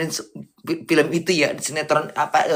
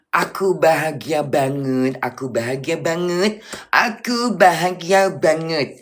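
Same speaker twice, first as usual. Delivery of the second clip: drawn-out, emphatic happiness; very happy; slower than usual. Real, not acted. Telling followers she is very happy, drawn-out and emphatic. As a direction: stretch out the joy word by word. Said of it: "Bunda bahagia banget".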